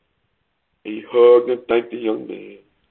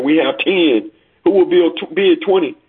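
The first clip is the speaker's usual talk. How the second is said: lightly voiced auctioneer, pitched up; 6 semitones higher than usual. Auctioneer asking the room for twenty, lightly acted calling. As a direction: call out for the next bid like an auctioneer.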